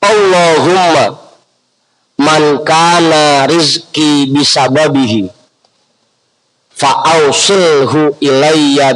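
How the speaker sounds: slow, drawn-out Arabic prayer recitation; contoh bacaan doa. Shown as a demonstration. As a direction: recite it slowly for learners to follow. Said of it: "Itu bacanya". (bacaan doa perlahan dan panjang)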